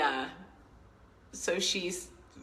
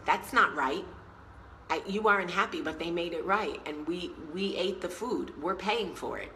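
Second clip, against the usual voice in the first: put-on feisty old lady. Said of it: "So she was so feisty".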